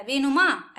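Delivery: वेनुमा with a long final आ; वेनुमा ending on a drawn-out आ; question ending. Shown as a demonstration. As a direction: stretch the आ at the end of वेनुमा. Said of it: "आ sound आ जाता है".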